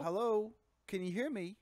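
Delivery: high-pitched, checking the line; annoyed. Pretend. Customer unheard by the operator, annoyed. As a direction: call out to a deaf line. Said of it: "I was getting annoyed".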